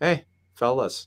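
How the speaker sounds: put-on Western Canadian accent. Retelling a coach greeting everyone in the room, in a western canadian accent. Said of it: "he had this Western Canadian accent".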